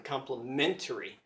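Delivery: "complementary" with the stress on "men"; stress in the middle. Shown as a demonstration. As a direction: put the weight on the middle of "complementary". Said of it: "the stress is right in the middle".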